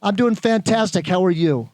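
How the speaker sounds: bright enthusiastic reply; cheerful salesman greeting; upbeat demo answer. Shown as a demonstration. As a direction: sell it like you mean it. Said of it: "let's hear it".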